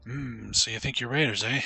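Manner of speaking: mocking raider chief, loud at first; gruff raider. Streamer voicing the raider chief dismissing the newcomers, gruff and scornful. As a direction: scoff at the greenhorns.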